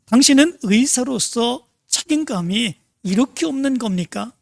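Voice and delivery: mock-scold the late doctor, half-hearted; retold angry shout. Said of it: "화를 내며 소리를 질렀다고". (가볍게 흉내 낸 화난 고함)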